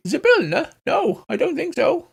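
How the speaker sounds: pining halfling, high; high hobbit voice. Acted. Kenku tells the cop about his patron.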